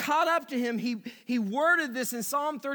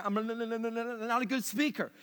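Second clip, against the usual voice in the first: mild Moses whine; 4 dB quieter than usual. Retold or imitated. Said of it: "Moses said things like this".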